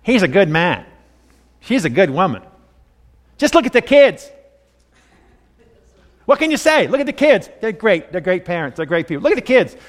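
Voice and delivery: put-on Yiddish-flavored older lady, rising high; Jewish accent. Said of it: "not do a good job of her Jewish accent".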